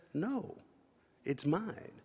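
soft, clipped refusal; cold refusal. Retold or imitated. Kid quietly refusing to give the knife back.

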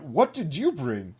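lightly hammed-up storybook villain; Mister Cat. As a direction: ask it slowly, with a big lilt. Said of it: "and asks".

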